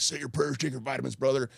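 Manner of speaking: hint of a hyped-up wrestling hero; Hulk Hogan impression. Retelling Hulk Hogan's catchphrase to the hosts, lightly mimicked. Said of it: "That's a good, that's a good impersonation".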